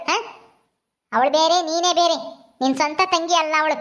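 a hint of a scolding granny; lightly voiced stern grandmother. Grandmother says she is no real sister, stern. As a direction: insist mildly, as a disapproving elder.

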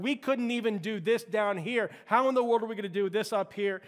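high, loud cry of disbelief; panicked crowd. Retold or imitated. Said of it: "they're going like".

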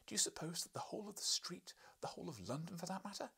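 high, exasperated scolding; a wife's high scolding. Acted. Wife to husband George, high exasperated scolding. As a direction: berate him in a high voice.

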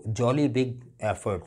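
slow "jolly big effort" with weight on "jolly"; slow, stressed example. Shown as a demonstration. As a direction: lean on "jolly" as you say it slowly. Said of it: "नहीं, jolly big effort।".

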